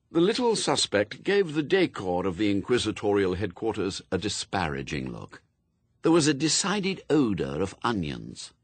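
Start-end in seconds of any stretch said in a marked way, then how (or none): none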